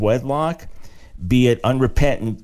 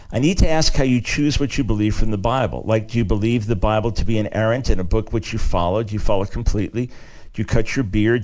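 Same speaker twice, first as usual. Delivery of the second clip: email read aloud; 2 semitones lower than usual. Acted. Reading out a listener's email.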